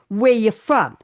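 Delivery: retold question in New York accent; lightly played-up New York accent. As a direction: ask it like a New Yorker. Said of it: "allowed to talk like this".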